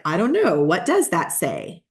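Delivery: lightly voiced clueless agent, exaggerated pitch swings; lightly hammed-up "let me check" stalling; mock unprepared agent. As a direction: play a touch of fumbling uncertainty. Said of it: "You don't wanna be like".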